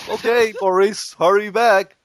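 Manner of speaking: trusting wife. Acted. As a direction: send the husband off, playfully acted. Voices Boris's trusting wife.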